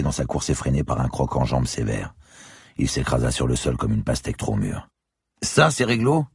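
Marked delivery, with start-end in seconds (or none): 5.4-6.3 ironic. A narrator's reading. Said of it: "ironisa Crombé".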